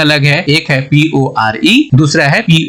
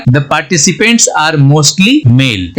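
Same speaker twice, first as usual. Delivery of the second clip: very slow, deliberate English sentence; slow example read; much slower than usual. Shown as a demonstration. Teacher reading an example sentence slowly to students. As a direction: read it word by word. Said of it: "sentence में use करेंगे".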